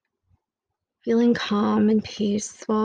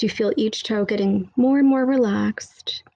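whisper. Acted. Whispered meditation line.

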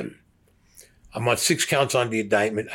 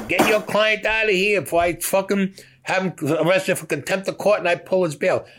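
a raised, higher, angry judge threatening contempt; 9 semitones higher than usual. Retold or imitated. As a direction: warn them off like a fed-up judge, voice up. Judge threatens to arrest the client.

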